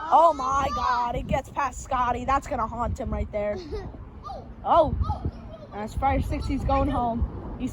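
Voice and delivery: drawn-out dismayed announcer call; play-by-play. Acted. Announcer lamenting Scotty's miss, play-by-play. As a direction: stretch the opening cry, then settle into commentary.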